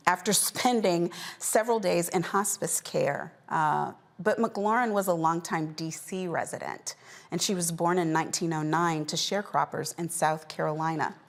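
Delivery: measured anchor reading an obituary; news read. Acted. Host reporting a beloved centenarian's death to viewers, measured news read. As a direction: deliver it as a closing news story.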